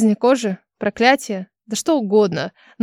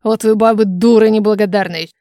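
near hiss. Acted. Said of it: "Чуть ли не зашипел бог лжи".

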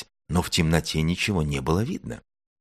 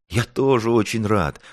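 pitched-up happy relief; pleased little wolf cub; smiling; 6 semitones higher, 3 dB louder than usual. A narrator's reading. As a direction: say it gladly with a smile. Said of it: "улыбнулся волчонок".

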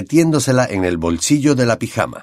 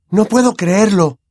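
voice breaking with emotion; 10 semitones higher, 4 dB louder than usual. Acted. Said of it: "con la voz quebrada por la emoción".

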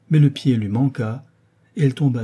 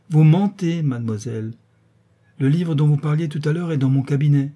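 sharp raised accusation, louder; the marquise catches her maid lying; accusing marquise; 4 semitones higher, 4 dB louder than usual. Acted. Angry accusation.

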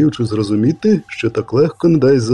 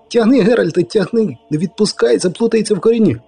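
high, urgent cries, quicker at the end; frantic urging; 8 semitones higher than usual. Acted. Poet urging Geralt to haul, high frantic cries. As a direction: push him on, breathless with panic.

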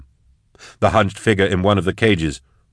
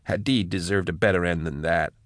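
miserable; 7 dB quieter than usual. Acted. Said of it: "she said miserably".

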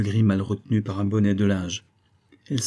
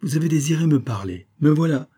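soft and urgent; 5 semitones higher than usual. Acted. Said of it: "de sa voix qui était douce et pressante".

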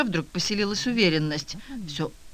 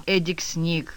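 usual speaking voice

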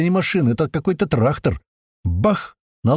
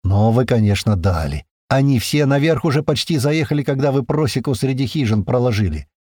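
plain reading voice

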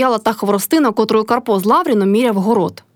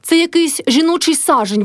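lightly derisive, lifted pitch; understated teasing jibe; mocking; 7 semitones higher than usual. A narrator's reading. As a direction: poke gentle fun at them. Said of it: "сказав насмішкувато Лаврін".

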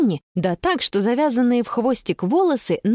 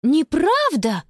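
higher, slow indignant protest; 7 semitones higher, slower than usual. Acted. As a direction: insist hard it's a lie. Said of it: "возмутилась сестра".

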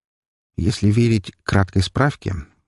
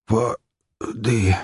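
hoarse croak; 3 semitones higher than usual. A narrator's reading. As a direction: croak it out with a dry throat. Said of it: "мой шёпот больше походил на хрип". (хриплый шёпот)

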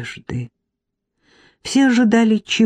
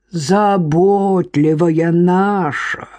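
slow, sneering mockery; mock her care; demonic mockery; much slower than usual. Marik mocking his wife, slow sneer. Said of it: "Марик демонически захохотал".

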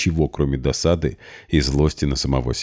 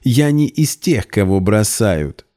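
much higher, slow shriek; 5 semitones higher, 4 dB louder, slower than usual. A narrator's reading. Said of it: "взвизгнула Полина". (взвизгнула, очень высоко)

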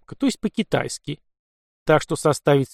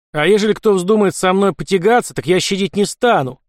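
loud, higher warning to all; raised stern warning; louder warning; 6 semitones higher, 4 dB louder than usual. Acted. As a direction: threaten the others so everyone hears. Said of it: "добавил он громче".

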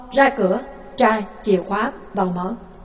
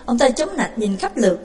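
usual speaking voice

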